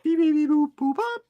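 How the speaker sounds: high robotic beeping; robot beeps. Pretend. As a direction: beep like a little robot. Robot noise imitation.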